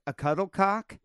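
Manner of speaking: puzzled mock outrage; surprised question. Kate mishearing the term, surprised and rising. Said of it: "Kate was like".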